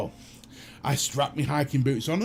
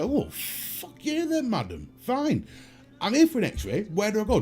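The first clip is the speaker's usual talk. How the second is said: indignant retort; 5 semitones higher than usual. Retold or imitated. Retorting to receptionist.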